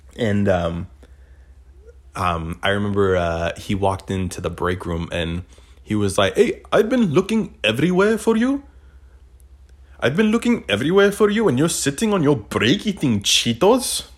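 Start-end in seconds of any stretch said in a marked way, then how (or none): 6.4-14.0 put-on Indian accent, very high-pitched. Retelling a coworker finding someone on break: imitating an Indian coworker's accent. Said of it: "he sounded exactly like the Indian guy".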